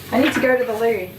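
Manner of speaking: a light put-on British accent; lightly voiced British "I need to go to the loo"; mock British accent. Shown as a demonstration. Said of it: "You say loo".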